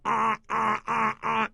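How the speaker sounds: nose-held ah ah. Shown as a demonstration. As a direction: hold your nose and chant ah ah to break the pattern. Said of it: "grab your nose and go".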